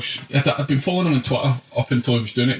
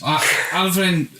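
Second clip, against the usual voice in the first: mock fan voice; 7 semitones higher, slower than usual. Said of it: "First boy, sitting on a".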